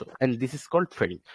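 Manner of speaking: very slow, each word laid out; deliberate teacher's definition; slow emphatic definition. Shown as a demonstration. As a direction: spell the term out slowly for students. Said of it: "teacher stating the key term".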